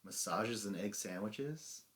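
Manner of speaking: slow, questioning mock shrug; imitated noncommittal answer, rising at the end; verbal shrug. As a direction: offer it slowly like a shrugged guess. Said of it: "Kara just shrugs and says".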